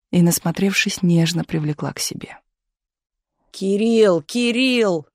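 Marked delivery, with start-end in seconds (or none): 3.5-5.1 straining call. A narrator's reading. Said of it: "надрывался за оградой Миша".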